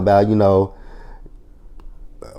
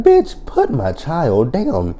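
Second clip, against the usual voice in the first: higher, very slow drawn-out order; hammed-up slow high warning; slow high mock demand; 6 semitones higher, much slower than usual. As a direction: stretch each word out like a fed-up mother. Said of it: "It's like".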